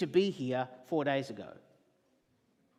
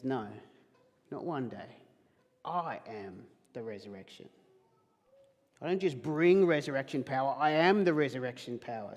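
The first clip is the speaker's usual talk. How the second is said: direct truth; 3 semitones lower than usual. Retold or imitated. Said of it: "And Jesus says".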